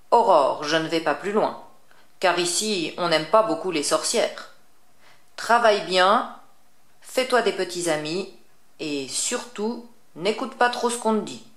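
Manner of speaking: a hint of a witch giving advice; lightly voiced witch. Witch sends Aurore to school.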